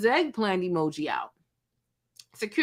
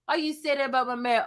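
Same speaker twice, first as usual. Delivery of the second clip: imitating him; 6 semitones higher than usual. Imitating the meek clout chaser.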